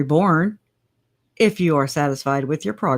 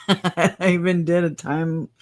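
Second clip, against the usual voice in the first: laughing at herself. Real, not acted. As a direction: giggle through the words. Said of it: "I can't even read".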